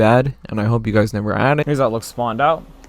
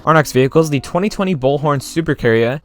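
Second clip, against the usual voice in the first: slipping into a light British accent; an accidental hint of British accent; 3 semitones higher, 3 dB louder than usual. Real, not acted. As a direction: say it with a mild British lilt. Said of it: "Why did I say that in a British accent?".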